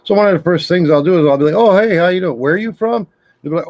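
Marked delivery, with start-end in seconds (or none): 1.5-3.1 acted high-pitched cheery hello; mock-friendly greeting. Toying with a spam caller on the phone, mock-friendly. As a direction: play overly friendly, pitched well up.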